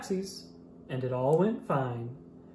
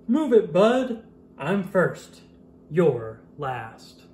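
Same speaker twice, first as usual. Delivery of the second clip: pushy trucker; 2 semitones higher, 5 dB louder, much slower than usual. Acted. Grocery truck blasts horn, pushy.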